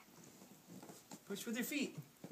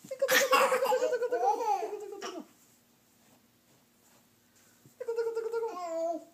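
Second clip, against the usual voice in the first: giggly tickle attack; 5 semitones higher than usual. Real, not acted. Tickling toddler again.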